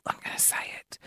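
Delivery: hushed conspiratorial whisper. Real, not acted. Host about to reveal the show name, whispering. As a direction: lean in and whisper it like a secret.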